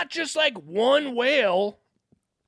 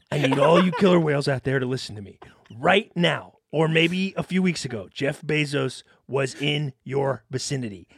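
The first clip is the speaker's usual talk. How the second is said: low, fast commander's address; brief the troops like a general; rallying speech; 5 semitones lower than usual. Pretend. Addressing orcas like a leader.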